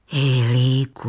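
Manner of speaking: deep, slow loud call from grandpa. A narrator's reading. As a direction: call the boy's name as if just remembering.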